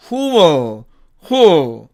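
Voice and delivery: "who will" squeezed to "hu-o"; contracted who'll. Shown as a demonstration. Teacher shortening who will for learners, contracted. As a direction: say "who" gliding into an open dark L. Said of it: "이렇게 발음이 됩니다".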